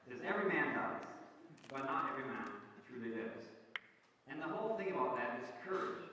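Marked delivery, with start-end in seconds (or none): 0.2-3.5 put-on Scottish accent. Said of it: "Now, you don't need a Scottish accent, but it does help".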